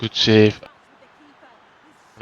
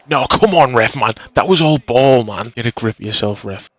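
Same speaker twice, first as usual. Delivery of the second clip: yelling from the sidelines; 3 semitones higher than usual. Real, not acted. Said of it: "arguing with the ref".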